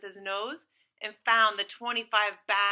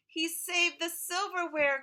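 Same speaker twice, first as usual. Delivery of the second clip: excited cry; 6 semitones higher than usual. Acted. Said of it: "cried Mother".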